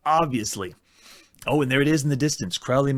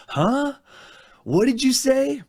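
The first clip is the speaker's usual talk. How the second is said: higher, louder baffled double-take; baffled huh; 9 semitones higher, 3 dB louder, slower than usual. Real, not acted. Gamer baffled by the text parser's reply, higher and louder. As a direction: react as if the game talked back nonsense. Parser rejects the typed command.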